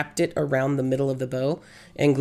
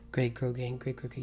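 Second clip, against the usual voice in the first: tongue twister attempt; 10 dB quieter than usual. Shown as a demonstration. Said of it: "Say that five times fast".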